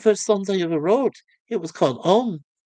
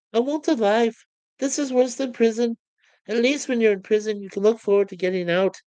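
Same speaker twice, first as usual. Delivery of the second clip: higher, frustrated pleading; long for a real life; desperate Lister; 5 semitones higher than usual. Acted. Lister fed up with childish games, higher and desperate.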